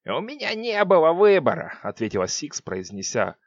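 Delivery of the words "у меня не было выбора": cold, menacing witch voice; icy witch voice. Acted. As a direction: chill every word. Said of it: "слова с леденящей интонацией".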